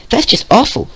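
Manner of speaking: very high bubbly pony; bubbly girl voice. Acted. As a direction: squeak it out in sympathy. Pink pony sympathizing.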